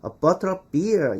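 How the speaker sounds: slow, every word of the long phrase spelled out; laboured full phrase. Shown as a demonstration. Teacher showing the needlessly long wording, laboured and slow. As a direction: take your time over each word, effortfully complete. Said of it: "이렇게 힘들게 말".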